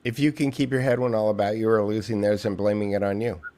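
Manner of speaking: 조용히 천천히 읊는 시 낭송; 차분하게 시를 읊듯이 낮게 낭독; poem recital. Acted.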